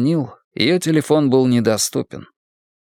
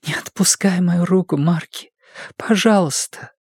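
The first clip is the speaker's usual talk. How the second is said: pleading whisper in his ear; 7 semitones higher than usual. A narrator's reading. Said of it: "прошептала на ухо".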